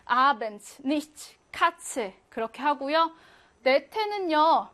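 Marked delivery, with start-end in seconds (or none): 0.0-2.1 아벤츠, 니츠, 카츠 each with a crisp ts; ts sound. Shown as a demonstration. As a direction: close 아벤츠 and 니츠 on ts. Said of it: "발음은 하나".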